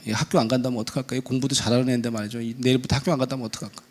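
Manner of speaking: low, soft, quick fretting; sleepless worrying. Acted. Mother lying awake over school refusal, low worried murmur. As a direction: murmur anxious thoughts to yourself. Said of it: "밤에 잠이 안 옵니다".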